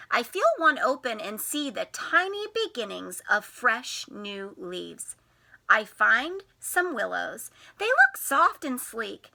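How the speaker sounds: lightly animated read-aloud; reading to children. A narrator's reading. Teacher reads the spring book to the class, gently. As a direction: read it gently to little ones.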